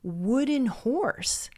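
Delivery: acted disbelief, pitch jumping up on questions; incredulous. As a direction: play the scoffing listener, drawing out key words. Acts out townspeople's disbelief.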